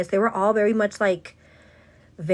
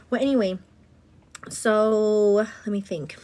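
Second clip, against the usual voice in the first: breathy whispered aside; whispered "well, anyway"; slower than usual. Real, not acted. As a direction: drop to a whisper for a beat. Aside while collecting her thoughts.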